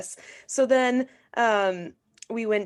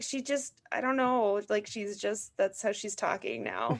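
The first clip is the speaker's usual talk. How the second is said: bewildered mom; 2 semitones higher than usual. Retold or imitated. Mom explaining the child's accent to dad, baffled helplessness. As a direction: explain it as if at a loss. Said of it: "my mom was like".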